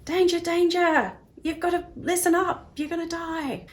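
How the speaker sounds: high panicked alarm voice; the brain's inner alarm shrieking a warning, in a high panicked voice. Retold or imitated. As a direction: squeak the warning like a frantic alarm bell. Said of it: "that inner voice of like".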